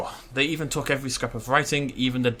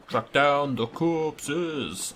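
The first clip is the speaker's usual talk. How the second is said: drawn-out repeat; 3 semitones higher, much slower than usual. Shown as a demonstration. Repeating the quest step to himself, very slow drawl. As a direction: stretch every word out very slowly, x0.3.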